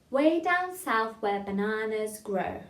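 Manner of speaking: put-on slow, rhythmic line for kids to copy; slow poem recital. Shown as a demonstration. Teacher reciting a poem line for children, slow. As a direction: chant it slowly and evenly. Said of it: "I'm gonna teach you a little poem".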